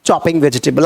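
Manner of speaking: slow, word-by-word example; teacher's slow demo sentence; slow model sentence. Shown as a demonstration. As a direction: spell it out for learners to repeat. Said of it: "तो मेरी मम्मी सब्जी काट रही है".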